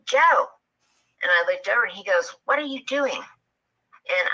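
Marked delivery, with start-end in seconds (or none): 0.1-0.5 imitated dad's high-pitched call. Dad calls out the name. 2.5-3.2 startled dad. Retold or imitated. Dad questions startled child.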